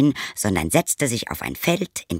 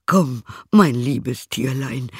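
tender coaxing; 3 semitones higher, slower than usual. Acted. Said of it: "liebkoste die Ziege und sprach".

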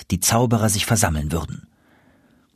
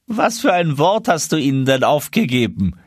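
higher-pitched, eager questioner; put-on high voice of a nosy wizard; curious sorcerer; 6 semitones higher than usual. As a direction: ask your crony, keen to hear. Another sorcerer asks eagerly.

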